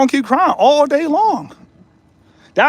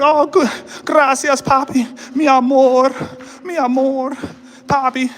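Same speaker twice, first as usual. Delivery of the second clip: mock girlfriend voice; 4 semitones higher than usual. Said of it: "She gonna be like".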